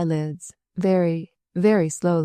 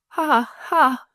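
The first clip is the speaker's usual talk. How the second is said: high laugh through tears; 8 semitones higher than usual. A narrator's reading. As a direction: laugh while crying. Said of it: "persisted ... tears streaming down her cheeks".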